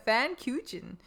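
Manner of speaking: "Pfannkuchen" botched as fan-KYOO-chen; worse mispronunciation. Real, not acted. Podcaster retries the German word, mangling "Pfannkuchen" as fan-KYOO-chen. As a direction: add a y glide and English ch to "Pfannkuchen". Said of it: "It's worse".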